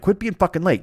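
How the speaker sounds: self-scolding. Retold or imitated. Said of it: "I scold myself in my brain".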